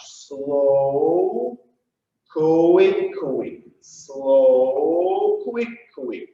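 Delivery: long stretched SLOW, short QUICKs; slow-quick-quick count. Shown as a demonstration. Dance teacher demonstrating the rhythm, slow-quick-quick. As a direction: hold SLOW out, then two short beats on QUICK. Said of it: "When we'll be doing slow, quick, quick".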